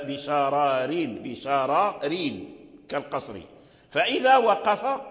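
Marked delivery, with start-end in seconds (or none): 0.0-3.4 slow بشرارين, first r full, second thin; joined reading. Shown as a demonstration. Teacher showing Qalun's joined reading, slow and careful. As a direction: draw out بشرارين as Qalun joins it. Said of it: "إذا وصل".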